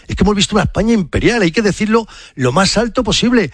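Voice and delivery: swept up in proud emotion, pitch riding high; emotional. Real, not acted. Fan telling Carlos of Spain's win, emotional. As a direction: gush with national pride. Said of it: "perdona que me emocione, que me estoy emocionando".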